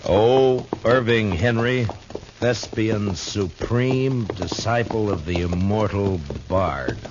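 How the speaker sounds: a hint of a ham actor declaiming, slow; mock grand recital. Marshal mockingly reads the actor's wagon sign to Chester, slow mock-grand declaiming. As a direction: read the sign like a pompous stage herald, drawn out.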